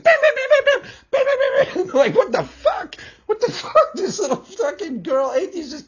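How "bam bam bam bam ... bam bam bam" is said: high, loud mock "bam bam" punches, through laughter; cartoon fight sound effects, laughing. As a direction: rattle off comic punch noises, giggling. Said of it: "She gets up in their face like".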